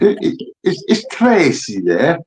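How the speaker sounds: slow put-on northern English voice; northern prank caller, drawn out; northern accent. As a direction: stammer it out in mock northern. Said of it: "put on the northern accent".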